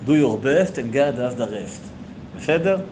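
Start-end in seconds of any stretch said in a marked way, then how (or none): 0.1-1.8 Israeli accent. Shown as a demonstration. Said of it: "מבטא ישראלי".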